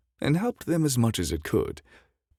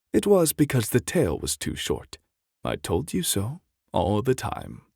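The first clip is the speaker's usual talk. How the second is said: decided; 5 semitones higher than usual. Acted. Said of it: "said Anna, decidedly".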